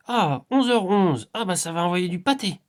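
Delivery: loud, high, stretched-out exclamations; hyped-up quote rising to a high peak; imitated excited outburst. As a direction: act out someone getting hugely fired up. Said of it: "et puis elle fait".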